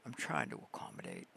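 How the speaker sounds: deep growled repeat. Pretend. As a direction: drop into a deep mock voice. Repeat dropped very low.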